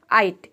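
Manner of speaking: "आइट" said alone as one syllable, GH silent; pronunciation demo. Shown as a demonstration. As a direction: model "आइट" for learners. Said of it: "मिलाकर हम pronounce करते हैं आइट".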